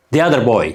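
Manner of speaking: put-on "The other boy" with "The" said as "thee" before the vowel. Shown as a demonstration. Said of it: "ሕጂ ኸዓ the ዘይኮነ the ትኾን ኣላ". ("The" ከም "ዚ" ተድምፃ)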